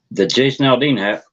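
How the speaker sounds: talking around a nitro tablet; words slurred round a pill; mouth full. Real, not acted. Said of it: "I got nitro in my mouth".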